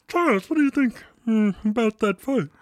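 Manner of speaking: high, put-on interviewer voice; mock talk-show host. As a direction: playfully question the guest. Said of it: "impersonate any of those people".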